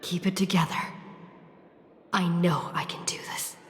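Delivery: whispered self-encouragement; steady yourself in a hushed breath. Acted. Alone in the memory zone, whispering courage to herself.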